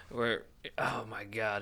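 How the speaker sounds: slow breathy whisper. Real, not acted. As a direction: whisper it, slowly. Whispered aside while recalling a bit.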